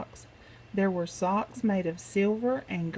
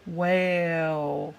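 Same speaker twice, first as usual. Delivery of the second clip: big wail; 3 semitones lower than usual. Acted. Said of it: "she gave an enormous big".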